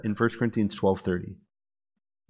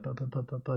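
soft repeated "buh" syllables; imitated lip babble; 11 dB quieter, faster than usual. Teller imitates fiancée's lips moving in prayer, soft babble. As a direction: mimic quiet, meaningless lip-moving babble. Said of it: "lips begin to move".

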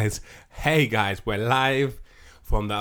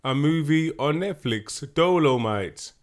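loud, slow, drawn-out hype; hype announcer; 2 semitones higher, 4 dB louder than usual. Pretend. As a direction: announce it like a movie trailer. Hyped intro of the episode's movie.

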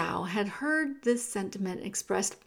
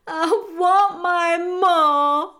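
very slow, high, loud sobbing wail; full-voiced tearful cry for mother; 8 semitones higher, 11 dB louder, much slower than usual. A narrator's reading. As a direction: stretch it into a long bawl. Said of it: "cried Meg into the silent".

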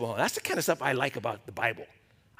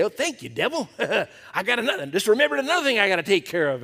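joking laugh; 4 semitones higher, faster than usual. Retold or imitated. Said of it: "he kinda make a joke out of it".

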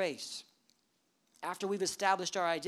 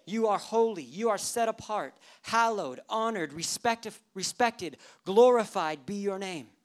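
praying; 3 semitones higher, 5 dB louder than usual. Acted. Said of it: "Jesus is essentially praying".

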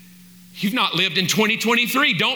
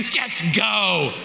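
shout at drivers; 2 semitones lower than usual. Acted. Preacher mocking stalled roundabout drivers, fed-up shout. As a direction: bark Just go at the stalled cars.

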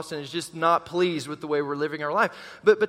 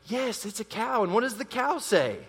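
put-on parent to baby; 3 semitones higher than usual. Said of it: "We say".

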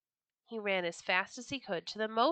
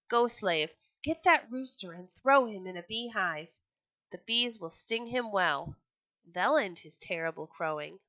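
angry order; 5 dB louder than usual. Acted. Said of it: "he called a slave and said".

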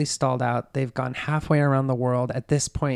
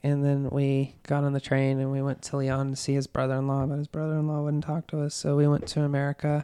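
matter-of-fact, run-on account; totally flat telling. Retold or imitated. Suspect telling police of the getaway, totally flat. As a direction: list events without any feeling. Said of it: "totally flat telling this".

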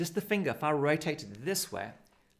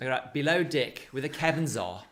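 below deck said louder; stressed words; 5 dB louder than usual. Shown as a demonstration. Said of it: "just really emphasise those two words".

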